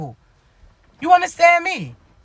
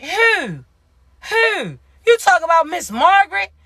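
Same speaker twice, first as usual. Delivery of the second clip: incredulous shout; 3 semitones higher than usual. Real, not acted. Mocking disbelief at listener.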